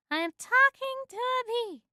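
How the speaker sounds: high-pitched disbelief; dazed disbelief. A narrator's reading. Woman repeats that she talks to a bee, amazed.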